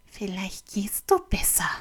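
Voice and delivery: leise, langsame geflüsterte Warnung; warnend. Acted. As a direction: langsam und leise drohen. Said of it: "warnt sie". (warnendes Flüstern)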